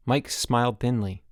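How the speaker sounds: ordinary delivery, nothing marked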